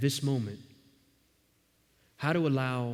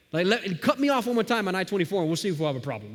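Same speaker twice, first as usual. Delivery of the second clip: fast, heated threat with a grin; mock road rage; 4 semitones higher, faster than usual. Pastor imagining snapping at a driver, fast mock threat. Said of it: "I'll get so upset".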